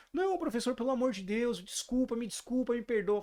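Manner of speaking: high, pleading mock-weeping boy; the crying boy begs his coach's pardon; imitated sobbing apology. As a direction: beg forgiveness through imitated tears. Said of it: "começou a chorar copiosamente".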